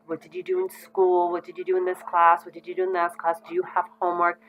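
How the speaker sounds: put-on pepper the child with questions; rapid-fire questioning. Shown as a demonstration. Parent grilling a child after school, rapid-fire questions. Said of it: "give them a whole bunch of questions".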